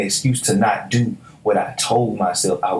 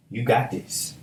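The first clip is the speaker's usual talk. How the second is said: God's quiet reassurance; 7 dB quieter, slower than usual. Retold or imitated. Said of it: "God just hit me".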